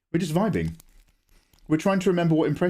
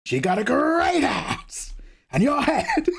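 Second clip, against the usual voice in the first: higher, slow, cracking near-shout; more energy; 12 semitones higher, slower than usual. Retold or imitated. Streamer rerunning the quote with extra energy, cracking shout. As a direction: throw everything into it, half laughing. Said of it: "I like to throw more energy in it".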